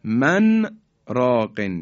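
من راقن with the nun of من fully voiced before راقن; clear nun before ra. Shown as a demonstration. Teacher demonstrating izhar to listeners, reciting clearly. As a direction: keep the n of من distinct, no merging into راقن.

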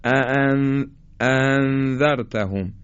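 "اَأَنذَرْتَهُمْ" with the second hamza weakened; poorly articulated hamza. Shown as a demonstration. Teacher shows learners a faulty اَأَنذَرْتَهُمْ, hamza not well made. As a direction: let the two opening hamzas of "اَأَنذَرْتَهُمْ" slacken.

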